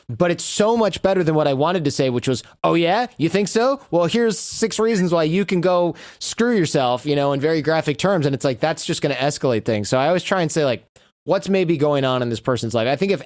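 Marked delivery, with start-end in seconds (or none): 2.6-7.1 higher, indignant comeback; acted-out snippy retort; mock combative retort. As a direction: fire back as if challenged, half in jest. Imagined angry retort to email.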